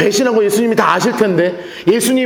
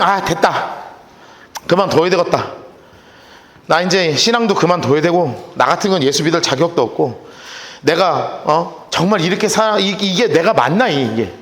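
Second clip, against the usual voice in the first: despairing mutter; 7 semitones lower than usual. Retold or imitated. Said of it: "하고 넘어져서".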